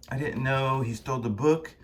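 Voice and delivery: lightly voiced, measured admission; restrained remark. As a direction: state it calmly, close to natural pitch. Second take after the mistake.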